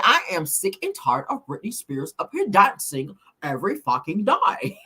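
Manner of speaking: hammed-up British impersonation; a rock singer. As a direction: imitate a British rocker, stretching the final word. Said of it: "he got that British accent".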